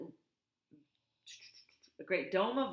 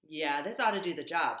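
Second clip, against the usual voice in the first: friendly voice; 5 dB louder than usual. Acted. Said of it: "said Roz in her friendliest voice".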